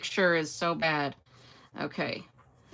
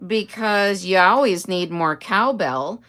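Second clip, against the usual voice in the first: louder, slow punch line; quoting the skit; 7 dB louder, slower than usual. Retold or imitated. Telling husband Chris the cowbell line, louder and slow. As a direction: deliver it like the skit. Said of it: "And I said".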